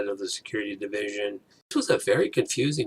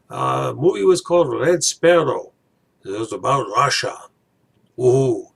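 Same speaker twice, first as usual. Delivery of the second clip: hammed-up Russian accent, higher and louder; 3 semitones higher, 6 dB louder than usual. Reviewing Red Sparrow for viewers in a hammed-up Russian accent. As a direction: play a mock Russian film reviewer in a thick Russian accent. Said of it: "I can only do a Russian accent for so long".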